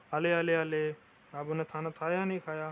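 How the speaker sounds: lightly imitated lisping coo to a baby; a hint of cooing at a toddler after food; mock baby talk. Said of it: "ये तोतले लोग होते हैं ना". (हल्की सी तोतली बोली में बच्चे को पुचकारना)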